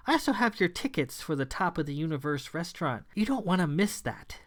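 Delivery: high, theatrical gloating villain; gloating hostess. Acted. Wilhela gloats over the carnage, high theatrical villain voice. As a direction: savour their defeat grandly.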